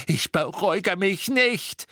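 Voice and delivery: high, slow furious scream; out-of-control angry shriek; screamed refusal. A narrator's reading. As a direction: scream it, stretching the words. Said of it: "schrie sie".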